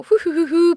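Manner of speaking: high little run of hoots; imitated whoosh. Storyteller mimics hurrying back up, high hooting. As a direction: hoot it as a rushing sound effect.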